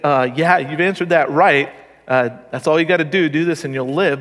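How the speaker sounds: offhand, sarcastic approval in a lowish voice. Acted. Jesus answering the lawyer's test, sarcastic. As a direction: toss it off as if it were that easy. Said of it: "he said this sarcastically".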